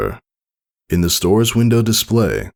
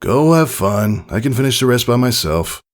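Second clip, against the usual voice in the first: light-hearted; 5 semitones higher than usual. Acted. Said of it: "light-hearted chuckle".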